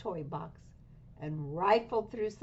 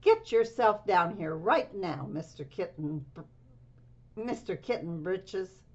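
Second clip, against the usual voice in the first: stern order; 4 dB louder than usual. Acted. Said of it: "ordered Mama Jo-, Joan Bug Jones".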